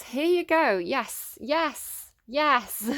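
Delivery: loud, high, thrilled yes yes yes; excited shout. Real, not acted. Reader shouting with delight at the Cancer card, excited shout. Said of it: "Shouting now".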